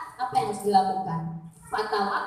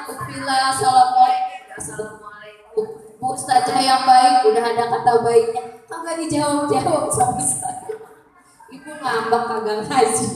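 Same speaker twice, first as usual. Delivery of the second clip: louder, whiny mock greeting and grumble; complaining congregant; 5 dB louder than usual. Preacher acting out a congregant whose WhatsApp went unanswered, mock whiny. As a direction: play a member sulking over an unanswered chat.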